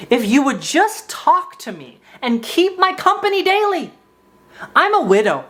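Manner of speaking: half-hearted angry rant; mock angry read. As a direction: read the message like a furious man. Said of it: "in a really angry way".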